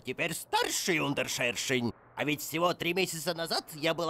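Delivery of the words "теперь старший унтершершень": старший slow and pressed; stress on старший. Real, not acted. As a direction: lean on старший, slowly. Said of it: "Вообще-то". (ударение на «старший»)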